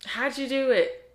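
hammed-up amazed question; mock eager question. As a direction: ask it in awe. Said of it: "he was like".

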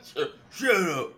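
laughing through the words, slowed down; cracking up while you get the words out. Real, not acted. Laughing back at the teasing.

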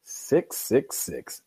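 slow whispered evil voice; spooky devil voice. Pretend. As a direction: drag out the devil's number. Repeats devil's number.

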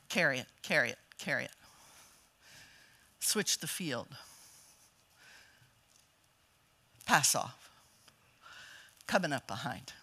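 low, soft, calm coaching; just talking. Retold or imitated. Dad calmly coaching his son from the end line, quiet. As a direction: talk him through it quietly. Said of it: "Wayne would just talk to Zach".

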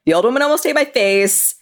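a pal insisting on a wild tale; excited friend retelling. Retold or imitated. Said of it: "a story where they're like".

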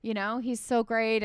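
lightly voiced upset defence of a friend; mild mock anger. Producer protesting to the boss for Albert, mildly indignant. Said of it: "she gets really mad".

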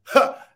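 one sudden loud puff of air; demonstrated gasp; imitated involuntary gasp. Shown as a demonstration. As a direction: expel the breath as if by reflex. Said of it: "expels air out of your body".

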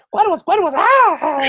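shrill high mock scream of pain. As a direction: scream like you just got hurt. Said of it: "Así grita de dolor".

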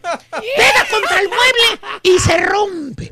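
mock cry of despair, drawn out; mock wailing. To the co-hosts about the drone, a hammed-up wail.

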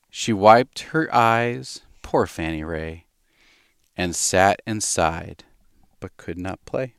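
slow, sing-song storybook reading; slow nursery-poem reading; reading a poem to a baby. Acted. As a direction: read it gently to the baby.

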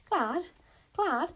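high, loud and incredulous; scandalised squawk of a cry; indignant outburst. A narrator's reading. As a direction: repeat it in disbelief.

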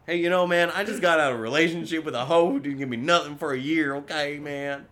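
hammy self-pitying excuse; mock excuse voice. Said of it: "I'm making up excuses".

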